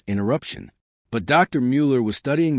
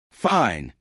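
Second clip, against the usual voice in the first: gritted teeth. Acted. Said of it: "he said through gritted teeth".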